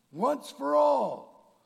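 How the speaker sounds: Once for all, slow and shouted high; Once for all drawn out and called loud; shouted exhortation. Acted. Preacher calling out to the sinner, slow shout.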